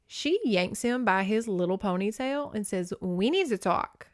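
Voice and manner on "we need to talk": put-on a touch of New York accent. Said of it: "why I said that like a New York accent".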